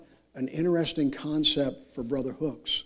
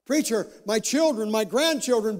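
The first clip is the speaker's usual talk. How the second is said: higher-pitched imitated plea to the preacher; pleading congregant; 7 semitones higher than usual. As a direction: lightly act a worried parishioner, pitch raised. Voices congregant pleading about family.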